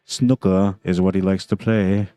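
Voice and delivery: slow, not very good British accent. Shown as a demonstration. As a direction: attempt a thick British accent, slowly and badly. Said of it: "that was my British accent. Not very good".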